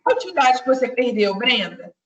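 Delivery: fast, run together, as if really asking a student; just ask Brenda casually; quick everyday question to a student; quick natural address. Shown as a demonstration. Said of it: "aí eu falo com ela".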